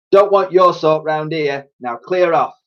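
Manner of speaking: gruff policeman voice. Acted. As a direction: shoo her off harshly. Policeman shooing girl away.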